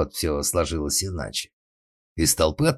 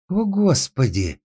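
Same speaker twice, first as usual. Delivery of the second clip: high startled exclamation; frightened cry; 12 semitones higher, 4 dB louder, slower than usual. A narrator's reading. Young lady frightened by the singing, high startled cry. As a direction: gasp it out high, as if scared. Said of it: "перекрестилась одна молоденькая дама с перепугу".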